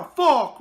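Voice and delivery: "fuck" said as "fock"; Conor McGregor pronunciation. Shown as a demonstration. Host proud of copying a fighter, "fuck" pronounced "fock". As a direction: round the vowel of "fuck" into an Irish-style "fock". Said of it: "I got the fuck right".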